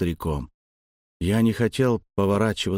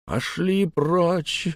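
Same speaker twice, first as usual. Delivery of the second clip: much higher, very slow whine; whimpered; 8 semitones higher, much slower than usual. Acted. The weeping old man whines them away, much higher and very slow. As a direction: whimper it through tears. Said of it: "проскулил старик".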